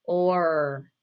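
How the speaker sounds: "Or" drawn out into a long final R; "Or" slowly sounded out for a learner; emphasised R sound. Shown as a demonstration. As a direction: hold the R at the end of "Or". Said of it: "Do you hear the R sound in or?".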